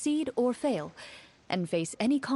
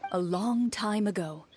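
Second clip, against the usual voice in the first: measured storytelling voice, evenly paced; game master narration. Acted. Game master opening the tale for players, measured narration. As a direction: set the scene like a storyteller.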